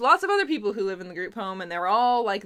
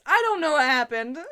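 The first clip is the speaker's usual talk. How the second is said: laughing bewilderment; 5 semitones higher than usual. Real, not acted. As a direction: insist you're lost, about to crack up. Repeats it, laughing, exasperated.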